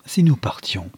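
lightly hushed, tentative proposal; tentative suggestion. A narrator's reading. Juliette suggesting to Adolphe they slip away, half-whispered. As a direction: float the idea in a half-whisper.

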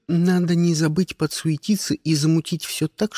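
usual speaking voice

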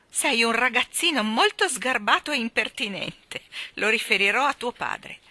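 loud, high, offended reprimand; indignant scolding. A narrator's reading. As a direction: scold a cheeky child sternly. Offended woman scolds the rude boy. (rimprovero indignato, a voce alta)

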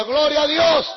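loud imitated praise; mock praise. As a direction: join the crowd half-heartedly. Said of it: "Y yo también decía".

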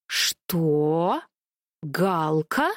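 low, disbelieving; can't believe his ears; stunned exclamation. A narrator's reading. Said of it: "воскликнул Чёрный". (ошеломлённо, низко)

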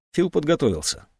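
plain reading voice

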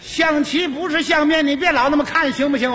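urging. Acted. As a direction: needle the other player to move. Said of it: "他这么一催呀". (不耐烦地数落对手)

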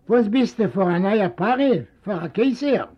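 a hint of an indignant old man; scornful old father. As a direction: sneer at the son's airs. Father scorns his son.

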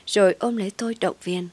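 ordinary delivery, nothing marked

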